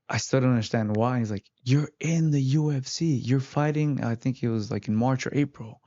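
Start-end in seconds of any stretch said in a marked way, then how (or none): 1.6-4.0 mildly excited quoted announcement; lightly imitated enthusiasm; enthusiastic coach. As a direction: retell the coach's big news with a touch of excitement. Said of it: "He was very enthusiastic".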